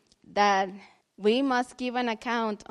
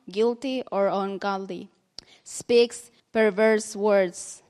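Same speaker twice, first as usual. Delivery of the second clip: scripture reading; slower than usual. Acted. Reads scripture.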